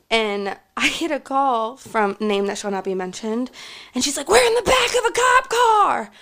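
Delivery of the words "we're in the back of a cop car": high, squeaky put-on voice of the friend; quoting the friend in a high silly voice; mock friend voice. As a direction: pipe it up high like a panicky friend. Friend calling from cop car.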